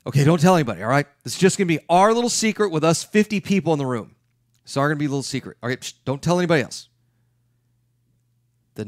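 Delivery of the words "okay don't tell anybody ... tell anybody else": louder, higher hammed-up secret-keeping; mock conspiratorial shushing. The speaker teasing fifty attendees with a fake secret, hammed-up shushing. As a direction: shush the whole room like it's a big secret. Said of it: "I go".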